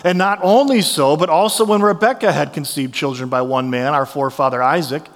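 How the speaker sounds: measured public reading of the passage; scripture reading. Acted. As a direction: read Romans to the congregation, steady.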